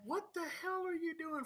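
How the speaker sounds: high, yelled question through the door; shouted from inside. Retold or imitated. Yelling at the man slapping the front door, high shout. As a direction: call out at him from inside.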